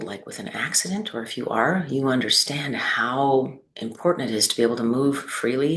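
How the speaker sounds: unhurried guiding voice with long pauses between phrases; measured, spacious meditation delivery; guided meditation. Acted. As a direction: lead them gently through the body, leaving space after each phrase.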